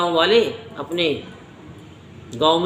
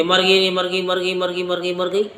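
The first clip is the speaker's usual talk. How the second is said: rapid-fire repeated cry, barely raised; mock outcry. Woman crying out to the villagers that she is dying, mock outcry. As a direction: imitate a woman raising a false alarm in one unbroken run. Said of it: "उसने शोर मचाना शुरू कर दिया".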